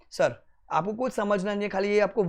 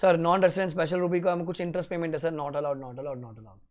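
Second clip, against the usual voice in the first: mock student reply. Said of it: "student answer in quotes".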